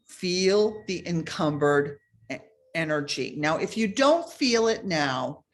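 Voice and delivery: measured meditation guide, pausing between phrases; guided meditation. Real, not acted. Meditation teacher asking listeners to scan the body, guiding calmly. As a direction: lead listeners gently through the exercise.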